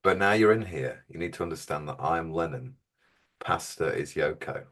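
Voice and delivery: deadpan, quietening towards the end. Acted. Cult superior tells cleaner who is which member of a famous band, deadpan. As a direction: lay out the pecking order dead straight. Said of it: "Script says play it deadpan".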